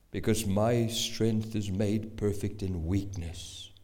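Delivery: deep, slow, weighty voice of God. Acted. Preacher voices God's reply to our cry, deep and slow. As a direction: speak as God, low and unhurried. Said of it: "and God says".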